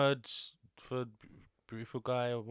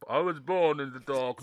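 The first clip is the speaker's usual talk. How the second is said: Bane line; 5 dB louder than usual. Retold or imitated. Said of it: "I just remember you".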